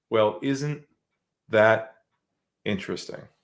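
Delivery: voice dropped very low. Retelling what you said to a man from a big company: lowered voice. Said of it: "I lowered my voice".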